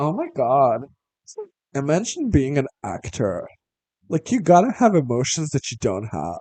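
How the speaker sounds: put-on soft, sing-song California Valley girl way of talking. Describing a woman who walks in and how she talks: Valley girl voice. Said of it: "Valley girl. She's like".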